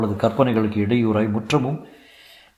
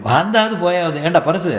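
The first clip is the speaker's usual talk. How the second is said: hearty elder husband explaining; jovial husband; 4 semitones higher than usual. Acted. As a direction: brush it all aside breezily. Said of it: "சுப்புனி பெருசாக சிரிக்கிறான்".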